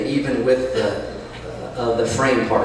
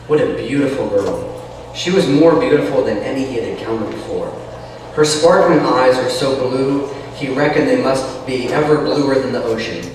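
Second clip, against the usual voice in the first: story narration. Acted. Reads novel aloud.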